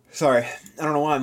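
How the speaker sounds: words stretched by a yawn. Real, not acted. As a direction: fight through a yawn. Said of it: "addictively yawning right now".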